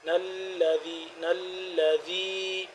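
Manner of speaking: نلذی slow, the doubled ل held tight; held shadda. Shown as a demonstration. Teacher drills the shadda tension in نلذی for students. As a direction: lean on the doubled ل of نلذی, slowly. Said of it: "یہاں پہ کھچاؤ پیدا ہو رہا ہے تشدید کی وجہ سے".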